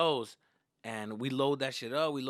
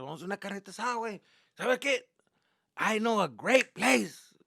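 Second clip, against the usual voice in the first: raised, eager dad voice; imitated dad; 7 semitones higher, 5 dB louder than usual. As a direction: play dad pitching an outing, higher than usual. Dad voiced proposing weekend outing.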